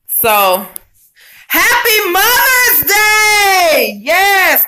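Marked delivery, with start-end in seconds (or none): 1.5-4.6 high, loud, slow and teary Mother's Day cheer; excited shout. Real, not acted. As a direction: burst out with a tearful, joyful holiday greeting. Greeting viewers on Mother's Day.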